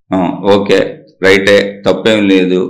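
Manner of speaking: low-pitched, easy agreement; conceding. Real, not acted. Grants the listener's claims before rebutting.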